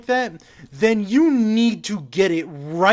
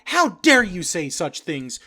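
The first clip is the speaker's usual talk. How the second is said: mock outrage. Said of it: "what you shouldn't respond with is".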